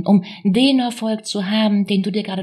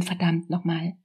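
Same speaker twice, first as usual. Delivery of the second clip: muttered curse; 4 semitones lower, 7 dB quieter than usual. Retold or imitated. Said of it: "das kleine Kind in dir schreit".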